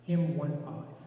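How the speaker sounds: Hymn one five, each digit said separately; digits spelled out. Shown as a demonstration. Leader spelling the hymn number for the congregation, digit by digit. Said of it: "say it a couple of different ways".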